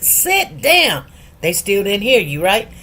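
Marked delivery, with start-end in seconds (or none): 0.0-1.1 put-on higher-pitched order to a child; parental command. Parent to restless kids, mild command. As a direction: tell the kid to sit, mildly firm. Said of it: "And you be like".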